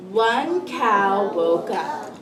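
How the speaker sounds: slow, deliberate storybook reading; read-aloud to children. Acted. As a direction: read slowly to a class of young children. Teacher reads picture book aloud.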